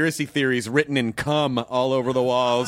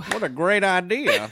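slow, dopey pet voice; cat voice; 3 semitones higher, slower than usual. Pretend. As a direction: speak as the dumb cat. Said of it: "says Scout".

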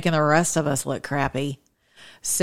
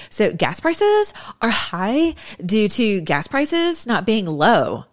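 put-on slow, higher, airheaded Valley girl voice; dumb Valley girl; 5 semitones higher, slower than usual. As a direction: play it like the dumbest white girl you can imagine. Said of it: "this is my actual dumbest voice I can think of".

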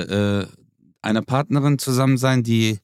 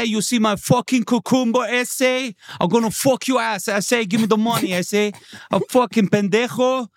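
much higher, swaggering Latino gangster English; Latino gangster accent; 7 semitones higher than usual. Pretend. A Latino gangster robs a subway rider with a cucumber, in a high, swaggering Latino gangster accent. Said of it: "Latino-Gangster aus der U-Bahn".

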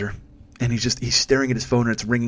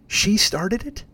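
put-on high, rising childish whine; mock his lame excuse; 8 semitones higher, much slower than usual. Comedian mocking his friend's excuse, high childish whine.

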